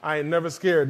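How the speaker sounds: low, relaxed "I ain't never scared" with a falling end; casual wry aside. Shown as a demonstration. Preacher jokes about the title in a low, wry voice. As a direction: toss it off with a sly shrug. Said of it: "Not really".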